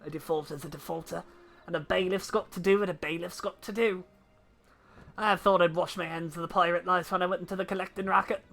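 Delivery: lightly voiced old pirate debt collector; a gruff seafaring bailiff, relishing it. Bailiff boasting to the party, a touch of pirate voice.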